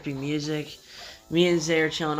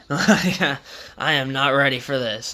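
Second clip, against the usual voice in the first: laughing; 3 dB louder than usual. Retold or imitated. Laughing while stunned by advice.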